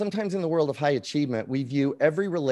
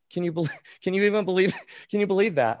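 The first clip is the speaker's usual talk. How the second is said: laughing disbelief; 6 semitones higher, faster than usual. Real, not acted. Laughing at his own irony.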